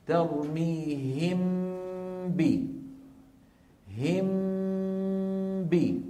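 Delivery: ترميهم ب said slowly, lips closed once on م and ب with nasal hum; very slow tajweed demonstration; ikhfa demo. Shown as a demonstration. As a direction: hum the م of ترميهم straight into ب without opening the lips. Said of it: "اتأملوا لي الآن هذه الكيفية".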